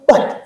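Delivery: "Bat" alone, opening on a b; short standalone "Bat" with b; separated second syllable. Shown as a demonstration. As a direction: split off "Bat" as its own syllable. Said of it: "et puis quoi?".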